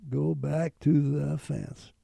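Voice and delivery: slow, firm command; a slow, steady voice of command; commanding inner voice. Retold or imitated. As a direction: lay down an order with no doubt. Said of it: "Just like a command".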